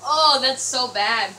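loud, slow disgusted groan. Real, not acted. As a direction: drag it out, grossed out. After gulping the eggnog.

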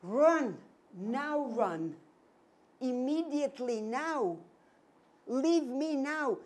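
urgent high plea, loud then stretched; imploring a child to flee, voice climbing; mother's silent desperate command, pushed high and loud; desperate urging. Retold or imitated. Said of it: "It was like that".

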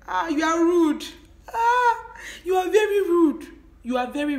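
high, loud, outraged; offended loud outburst. Real, not acted. Girlfriend scolding boyfriend for dismissing her, outraged shout. Offended by "you won't understand.

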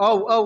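long, loud, open ও; drawn-out ও. Shown as a demonstration. Teacher loosening the mouth with a long ও. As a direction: stretch the ও wide open. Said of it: "মুখের জড়তা কাটানোর জন্য sir এইভাবে বলবো".

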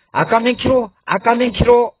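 high, clipped Gyeongsang dialect warning; Gyeongsang dialect call. Retold or imitated. Gyeongsang sparrow warns the others of the hunter, high dialect call. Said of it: "이렇게 하니까".

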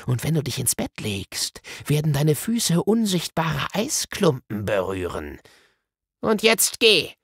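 lightly voiced imperious witch casting a threat; threatening sorceress. Villain threatens a spell. (drohende, gebieterische Zauberin)

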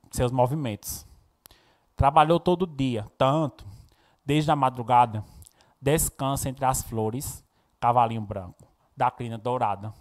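measured verse reading with pauses between lines; poem recitation. Acted. Teacher reading Cecília Meireles to the class, poem recitation. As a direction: recite it line by line, leaning on the openings.

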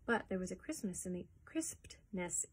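soft whispered aside. Acted. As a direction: hush to a whisper. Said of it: "unvoiced whisper".

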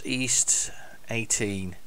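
slow unvoiced whisper to himself. Real, not acted. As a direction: breathe it out like a note to self. Reads the destination under his breath.

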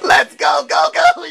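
very high, loud cheer rising on Goku; shouted cheer. Real, not acted. Gamer hyping Goku after the win, shouting. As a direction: yell his name in triumph.

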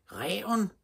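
put-on high-pitched child's alarm cry; high, excited scream of a little girl. A narrator's reading. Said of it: "skreg Stine".

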